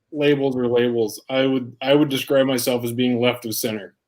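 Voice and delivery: talking with a mouth full of food. Real, not acted. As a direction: mouth full, chewing between words. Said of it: "talking with my mouth full".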